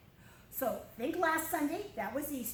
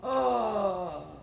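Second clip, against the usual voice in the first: amazed gasp; 6 semitones lower, 4 dB louder than usual. Retold or imitated. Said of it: "everybody went".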